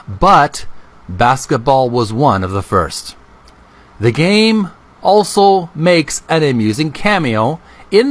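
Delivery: reading an Atari history book aloud to viewers, slow and deliberate. A narrator's reading. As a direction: read the passage out deliberately and a bit slow.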